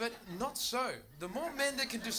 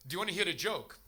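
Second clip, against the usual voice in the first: imitated Dutch accent. Dutch person offering the comedian a joke, Dutch accent. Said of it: "That's my Dutch accent".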